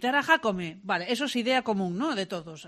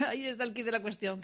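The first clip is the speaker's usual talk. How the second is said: laughing; 7 dB quieter than usual. Real, not acted. Repeats the phrase laughing.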